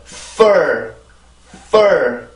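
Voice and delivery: "fur" with an airy f gliding into a falling r-vowel; pronunciation drill. Shown as a demonstration. Teacher modelling the stressed syllable for learners, pronunciation drill. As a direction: model "fur" alone, pushing air through the f. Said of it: "자, 발음해볼게요".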